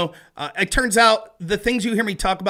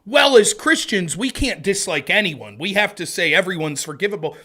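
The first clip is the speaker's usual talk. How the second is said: mock pious. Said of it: "They're not like".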